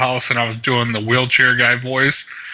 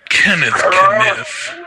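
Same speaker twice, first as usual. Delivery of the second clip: drawn-out name; 7 semitones higher, 4 dB louder, much slower than usual. Acted. Prank call name, drawn out.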